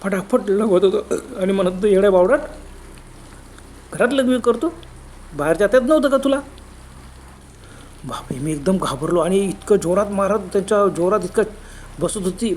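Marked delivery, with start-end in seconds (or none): 1.9-6.4 angry ghost scolding. Acted. Ghosts scold while beating.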